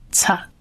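"擦" as an isolated, aspirated ts syllable; ts sound demonstrated. Shown as a demonstration. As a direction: model "擦" softly and on its own. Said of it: "它的发音呢就是擦". (单独轻声示范“擦”的发音)

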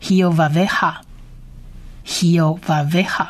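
hiyovaveha syllable by syllable, "hee-o-va-veh-ha"; model pronunciation. Shown as a demonstration. Teacher putting the whole word together, slow careful hiyovaveha. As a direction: say hiyovaveha slowly and distinctly for learners. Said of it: "我们把它发成".

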